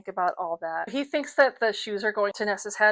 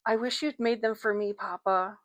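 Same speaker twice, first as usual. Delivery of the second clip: softer, wistful plea; quiet; 6 dB quieter than usual. Acted. Daughter quietly tells her father she wished for the shoes. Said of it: "she said in a quiet voice".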